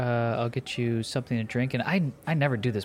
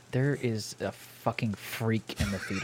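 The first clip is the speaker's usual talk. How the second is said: laughing; 5 dB quieter, slower than usual. Acted. Laughing while reporting a freak.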